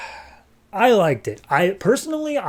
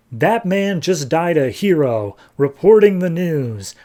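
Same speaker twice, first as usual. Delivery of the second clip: slow, emphatic mock eulogy; mock tribute; 3 semitones higher, 4 dB louder than usual. Boss honoring his dead reporter, mock solemn. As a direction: stretch it out like a hammed-up tribute. Retells boss's tribute monologue.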